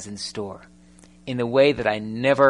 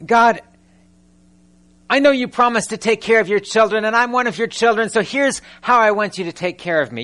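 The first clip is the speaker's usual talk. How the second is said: higher, pleading mock prayer voice; 5 semitones higher than usual. Preacher mimicking a demanding believer at prayer: lightly pleading. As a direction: play a whiny believer telling God what to do. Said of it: "We, we say".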